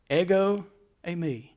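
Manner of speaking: "ego, eimi" pronounced the professor's way, EH-go AY-mee; Greek pronunciation demo. Shown as a demonstration. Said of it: "pronounce it the way my Greek professor pronounced it".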